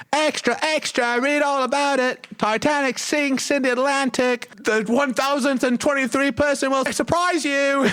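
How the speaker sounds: high little newsboy hawking papers; newsie voice. Acted. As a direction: shout headlines like a 1920s paperboy. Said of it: "It's a clickbait newsie".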